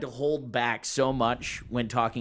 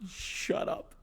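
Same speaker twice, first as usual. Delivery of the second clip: laughing protest; 9 semitones higher, 10 dB louder than usual. Real, not acted. Laughing at friend's teasing.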